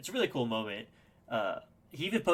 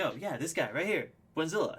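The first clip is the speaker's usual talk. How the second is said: higher-pitched imitation of a performer's shout-out; retold stage shout-out; 7 semitones higher, 4 dB louder than usual. Rapper singling out a fan on stage, retold shout-out. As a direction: point someone out to a crowd, re-enacted. Artist points him out from stage.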